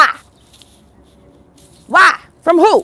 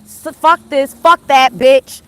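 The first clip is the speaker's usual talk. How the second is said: mock cussing that builds louder to the end; imitating cussing; 2 semitones higher, 5 dB louder, slower than usual. Retelling the livestream woman cussing people out, mock rising yell. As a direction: ham up the white woman's cussing, swelling louder. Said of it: "telling them".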